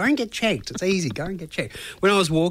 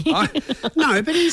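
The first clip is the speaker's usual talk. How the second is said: laughing; 13 semitones higher than usual. Real, not acted. Laughing while defending himself.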